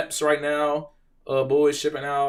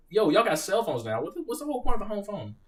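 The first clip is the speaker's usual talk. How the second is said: incredulous; 8 semitones higher than usual. Retold or imitated. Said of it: "I'm like".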